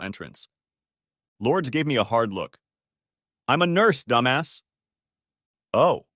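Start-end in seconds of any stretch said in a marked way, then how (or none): 3.5-4.6 sharp, louder, higher put-down; annoyed retort. A narrator's reading. Lourdes snapping at the driver who mocked her, sharp and loud. Lourdes snaps back with hard look. 5.7-6.1 sheepish oh. A narrator's reading. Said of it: "all I could manage to mutter".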